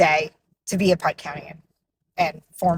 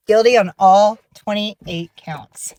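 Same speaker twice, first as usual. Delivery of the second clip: slow, louder triumphant news; excited announcement; 3 semitones higher, 6 dB louder, slower than usual. Real, not acted. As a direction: savour each word of the verdict. Announcing guilty verdict excitedly.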